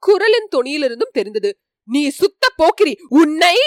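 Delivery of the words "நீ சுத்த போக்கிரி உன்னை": angry. Acted. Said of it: "மதுராந்தகருக்கு கோபம் உண்டாகத் தொடங்கியது".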